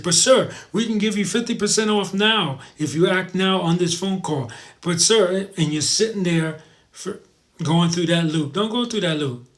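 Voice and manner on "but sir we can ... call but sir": higher-pitched, insistent mock sales pitch; pushy telemarketer. Telemarketer offering fifty percent off on the call, insistent mock pitch. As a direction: keep pushing the deal on them.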